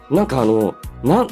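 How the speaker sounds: ordinary talk, nothing marked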